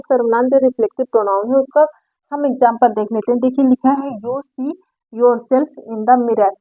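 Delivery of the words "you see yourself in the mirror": each word spaced out slowly for the class; slow dictation. Shown as a demonstration. Teacher dictating the example sentence to students, very slowly.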